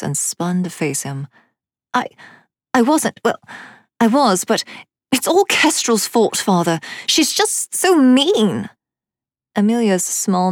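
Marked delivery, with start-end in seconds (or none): 1.9-8.7 put-on high, loud, protesting child; indignant little girl. A narrator's reading. Amelia blaming Kestrel to her father, indignant. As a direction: whine it loudly, stretching the last words.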